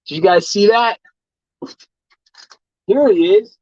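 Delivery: excited. Real, not acted. Showing off surprise food delivery.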